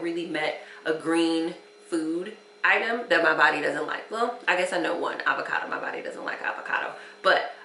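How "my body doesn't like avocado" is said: a secret little aside; whispered aside. Real, not acted. Aside about avocado.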